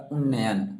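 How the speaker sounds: उन्नयन said slowly, the nasal from the throat; slow careful say. Shown as a demonstration. Teacher shows students the throat sound in उन्नयन, slowly. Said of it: "थोड़ा कंठ से आवाज़ आता है".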